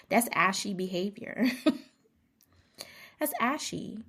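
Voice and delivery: laughing. Real, not acted. Repeats verdict laughing.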